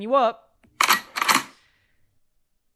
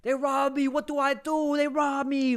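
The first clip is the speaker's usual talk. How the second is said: higher, breathy panicked pleading; mock hysterical, higher pitched; retold hysteria; 6 semitones higher, 4 dB quieter than usual. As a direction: replay your own hysterical panic at the police. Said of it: "I'm over here hysterical".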